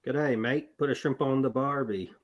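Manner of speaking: lightly attempted Australian accent; amateur imitation of an Australian accent; put-on Aussie accent. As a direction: have a go at a mock Aussie accent, tailing off at the end. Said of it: "so he can do the Br-, Aus-, Aussie accent".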